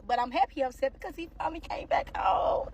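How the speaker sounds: unvoiced, secretive aside; whispered happy admission; whispered confession. Real, not acted. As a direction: let them in on a secret. Confiding happy man came home.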